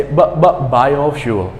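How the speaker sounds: "b, b, biofuel" slow and deliberate; slow sound drill. Shown as a demonstration. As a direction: model "biofuel" slowly for repetition. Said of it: "say b".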